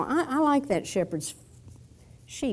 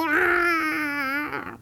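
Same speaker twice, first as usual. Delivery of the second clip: long sustained mock cry; imitated sheep cry; 2 semitones higher, 3 dB quieter than usual. Sheep getting its throat slit, imitated cry. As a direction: imitate a sheep crying out, drawn out. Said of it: "why didn't that sheep go".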